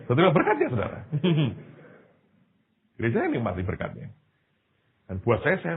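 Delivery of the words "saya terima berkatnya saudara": higher voice through real laughter; laughing. Real, not acted. Preacher tells congregation he got the blessing, laughing. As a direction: say it while chuckling.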